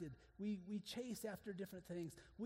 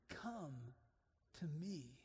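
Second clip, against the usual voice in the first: soft invitation; 4 semitones lower, 4 dB quieter, much slower than usual. Acted. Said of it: "three words to us".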